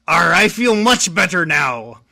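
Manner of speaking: lightly growled pirate captain; a hint of an old sea dog. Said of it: "I could only do one pirate voice".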